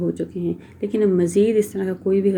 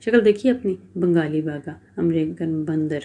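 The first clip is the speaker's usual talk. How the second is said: a light sneering jab, mildly leaning on the last words; sarcastic taunt; 2 semitones lower than usual. Acted. Iqra mocking her husband Hashir, lightly sarcastic. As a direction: tease him with mild scorn. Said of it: "آخری الفاظ پر زور دیتے ہوئے طنزیہ کہا".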